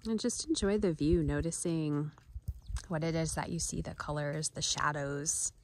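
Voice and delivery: gentle, unhurried guide with long pauses; guided meditation. Acted. Guide inviting viewers to notice nature sights and sounds, gentle meditation voice. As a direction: soften gradually into a quiet mindfulness voice.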